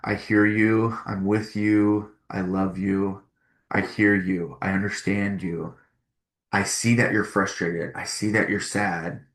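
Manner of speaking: tender parent validating feelings; soothing validation. Shown as a demonstration. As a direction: gently let the child feel heard. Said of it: "pause and just think".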